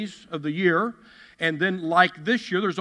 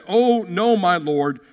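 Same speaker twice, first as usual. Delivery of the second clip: raised, panicky plea; a servant frightened at being surrounded; 3 semitones higher, 5 dB louder, slower than usual. Acted. Servant asking his master in alarm, lightly panicked. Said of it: "the servant asked".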